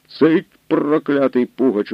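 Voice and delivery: high, slow furious shout; angry shout. A narrator's reading. Hetman shouts down the soldier bearing bad news, enraged. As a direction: silence the soldier with a roar. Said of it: "гукнув Потоцький".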